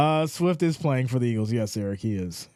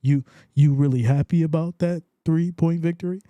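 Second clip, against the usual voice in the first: louder teasing disbelief, stretched out; hammed-up skeptical ribbing; mock incredulous question; 4 dB louder than usual. Shown as a demonstration. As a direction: needle him about the narrow win. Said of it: "you gotta say it like that".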